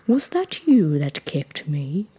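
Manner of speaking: low, slow creature voice; big talking rock. Acted. Rock asking who kicked it, low and slow. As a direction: ask slowly in a deep voice.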